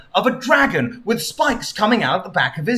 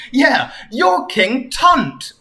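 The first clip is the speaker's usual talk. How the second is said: slow mock shout; 7 semitones higher, much slower than usual. Sonic recognizes the king.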